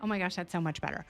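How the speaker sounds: usual speaking voice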